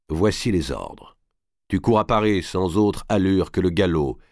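insistent orders, building in pitch and volume; commanding lord giving orders. Acted. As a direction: drive each instruction home with authority. Robert gives orders to his messenger.

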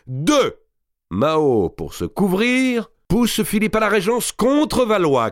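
high, forceful counting-off of points; scheming count. Acted. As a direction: hammer each step home. Robert lays out plot.

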